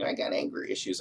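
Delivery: whispered mocking of the critics' line; mocking quote. Mocking critics on the left, whispered sneer. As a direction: scoff it under your breath, mimicking them. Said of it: "people on the left are saying".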